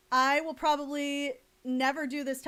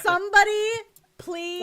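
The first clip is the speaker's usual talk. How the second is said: mock pleading; 8 semitones higher, 7 dB louder than usual. Begging for fan art.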